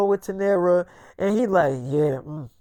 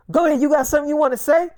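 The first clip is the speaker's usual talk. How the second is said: fast and higher, daring him to talk; heated challenge; 5 semitones higher, much faster than usual. Retold or imitated. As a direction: snap it at him quickly, up in pitch.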